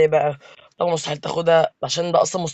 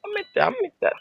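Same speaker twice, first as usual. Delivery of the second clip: squeaky alarmed "عم انت"; high alarmed cry; 4 dB quieter than usual. Real, not acted. Gamer yelps at an enemy player mid-fight, high and alarmed. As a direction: yelp at the other player. Panicked call during a fight.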